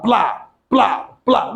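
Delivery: imitated crackle of the fire, plá plá; crackling sound. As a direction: make the popping of the flames with your mouth. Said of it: "Uma pelo estralar". (imitando o estalar do fogo)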